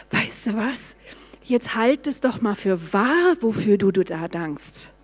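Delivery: tender, quiet coaxing; sweet, gentle God. Retold or imitated. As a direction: answer kindly as God, trailing off softly. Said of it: "war so Gott so süß".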